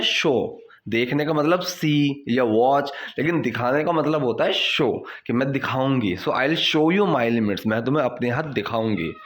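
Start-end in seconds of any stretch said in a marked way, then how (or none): 6.3-7.7 very slow, careful teacher reading; slow model sentence. Shown as a demonstration. Teacher to students, slow clear model sentence. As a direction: lay out each word for learners. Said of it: "teacher models phrase".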